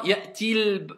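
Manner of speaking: Ya'ti al- as a stretched ya'tiiil; odd prolonged liaison. Shown as a demonstration. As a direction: overdo the long ee into the l. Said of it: "ça fait bizarre si tu veux le faire".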